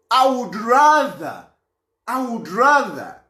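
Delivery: RATHER drawn out, then repeated; emphatic example. Acted. Giving an example of refusing to work with someone, emphatic. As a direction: stretch "rather" slowly for emphasis.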